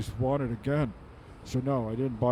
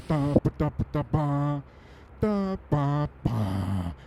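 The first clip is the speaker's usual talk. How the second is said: put-on baby babble. Long baby babble, building.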